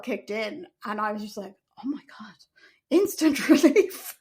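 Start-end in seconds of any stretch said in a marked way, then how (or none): 1.8-2.3 breathy whispered oh my God; whispered relief. Retold or imitated. Mother recalling the epidural kicking in, whispered. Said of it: "relief as epidural kicks". 2.9-4.2 whispered and slow, a laugh in the middle. Real, not acted. Telling viewers about the epidural, laughing whisper. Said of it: "relief as epidural kicks".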